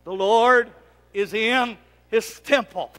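slow, weighted on "Lord"; call and response. Shown as a demonstration. Pastor leading congregation to repeat, slow. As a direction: lead them in saying it. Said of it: "Can you say that?".

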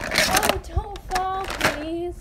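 high-pitched plea to a pet; worried pet talk. Real, not acted. Owner begs her pet not to fall, high pleading voice. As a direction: plead up high with the little animal.

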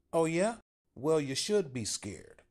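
small guy trying to sound tough; timid man pushing back. A narrator's reading. Paul confronts Bill.

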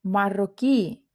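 маррокі with the final і stressed and held. Shown as a demonstration. Teacher gives an example ending, stressed final і in маррокі. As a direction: lean on the last vowel of маррокі. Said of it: "на наголошену".

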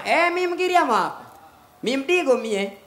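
slow put-on Coastal Swahili accent. Girls hiding their accent, slow Coastal Swahili accent. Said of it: "Wanajaribu kuficha accent".

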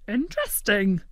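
talking through a mouthful; mouth full. Acted. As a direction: say it around a bite of pudding. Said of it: "through a mouthful of pudding".

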